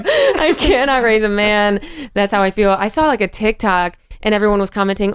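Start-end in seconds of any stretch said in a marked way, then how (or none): 0.0-1.8 slow, laughing repeat; laughing, slowed-down repeat of the punchline; laughing slowly. Real, not acted. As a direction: drag it out through laughter.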